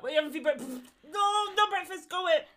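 high, loud mock dad voice; imitating dad. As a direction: play the grumpy dad shooing you away. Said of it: "Dad would be like".

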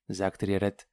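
ordinary delivery

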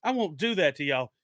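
high, loyal buddy refusing to snitch; defensive buddy. Retold or imitated. Covering for buddy Gary.

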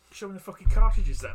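retold challenge. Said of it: "it's like".

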